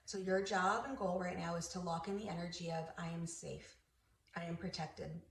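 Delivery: gently reassuring meditation guide; guided meditation. Acted. Host helping listeners feel protected, guided meditation. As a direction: reassure them quietly as you guide.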